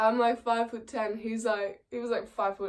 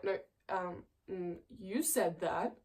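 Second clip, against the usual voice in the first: drunk impression; 3 semitones lower, 7 dB quieter than usual. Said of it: "my drunk impressions are gonna be so bad".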